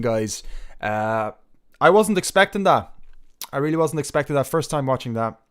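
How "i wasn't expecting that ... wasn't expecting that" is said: higher, louder genuine astonishment; surprised. Real, not acted. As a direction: caught off guard, blurt it. Host stunned by the video.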